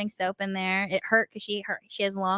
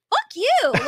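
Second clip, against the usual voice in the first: retold defiant outburst; 12 semitones higher, 4 dB louder than usual. Acts out child's defiant outburst.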